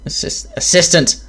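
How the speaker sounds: bursting out the answer; figuring it out at last; excited realization. Acted. Sudden realization of meaning.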